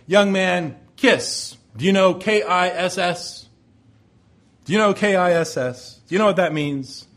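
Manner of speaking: lightly voiced old Navy man; a hint of a firm old serviceman; retired Navy man. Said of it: "elderly man, a, a retired Navy".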